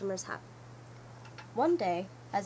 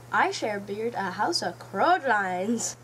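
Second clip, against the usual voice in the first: slow put-on piglet voice; drawn-out, dreamy little pig; Washfu's voice; 4 dB louder, slower than usual. A pig announces his laundry house, slow and put-on.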